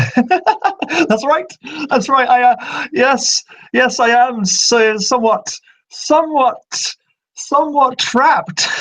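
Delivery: very high, slow, sing-song ghost voice; a playful phantom savouring its confinement; eerie high spirit. Acted. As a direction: stretch the words like an amused trapped spirit. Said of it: "Muse's voice echoes across you".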